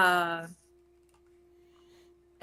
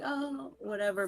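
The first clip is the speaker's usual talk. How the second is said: nonchalant; 6 dB quieter than usual. Shown as a demonstration. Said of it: "I'd rather just do a very nonchalant".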